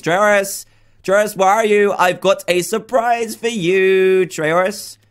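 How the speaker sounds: high, coaxing call across the room; calling out sing-song. Real, not acted. Youtuber calling his scientist friend with a surprise, sing-song. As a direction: lure him out with a teasing sing-song. Calling out to hide pet villager.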